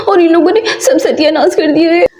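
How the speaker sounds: teary comic whimper; a touch of fake sobbing; mock crying. Lamenting the chicken. (हल्का नाटकीय रोना)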